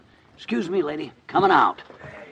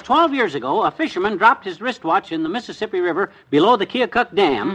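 excited reading aloud; 2 semitones higher, 5 dB louder than usual. Acted. Reading item from paper.

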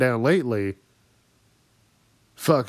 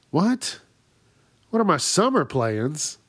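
incredulous; 4 semitones higher than usual. Retold or imitated. Reacting to stranger's question.

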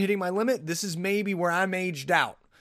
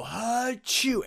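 high hammed-up achoo; imitated sneeze; mock sneeze; 8 semitones higher than usual. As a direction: act out a hard sneeze. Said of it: "and I go".

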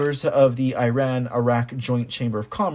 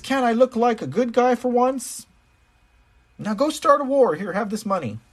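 Joe Biden; 9 semitones higher than usual. Retold or imitated. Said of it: "He's like".

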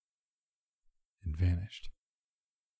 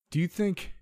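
high, strained yell; yelling over wind; 11 semitones higher than usual. A narrator's reading. Narrator to his friend in the hurricane, yelling. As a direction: call out over roaring winds, pitched way up. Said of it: "I yelled over the loud winds".

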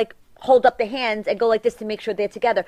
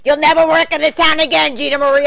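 tag; 3 semitones higher, 5 dB louder than usual. Retold or imitated. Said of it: "I'm the type of person to be like".

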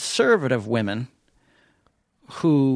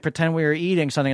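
ordinary delivery

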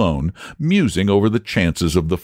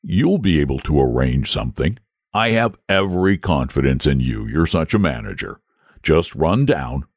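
put-on low, easygoing old dragon; lazy dragon voice; 5 semitones lower than usual. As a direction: leave it all to him, idly. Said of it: "in his lazy way".

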